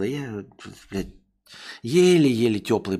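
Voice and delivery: ordinary delivery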